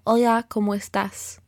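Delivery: Colombian accent, the pitch kept level; flat Colombian tone. Shown as a demonstration. Teacher shows the level Colombian melody in a Colombian accent. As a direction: say "Hola, ¿cómo estás?" in a straight Colombian tone. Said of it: "more straight toned".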